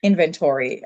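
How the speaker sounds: "inventory" with a full "tory" ending; American pronunciation. Shown as a demonstration. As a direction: say "inventory" as IN-ven-tor-ee. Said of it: "they would emphasize different parts".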